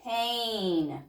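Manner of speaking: Pain said quickly as one word; said fast. Shown as a demonstration. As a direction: snap Pain together quickly. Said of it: "Say it fast".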